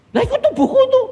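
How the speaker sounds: high, loud, laughing through the words; laughing at his own panic; laughing alarm. Acted. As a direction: blurt it out half laughing, half panicked. Panicked about his own body.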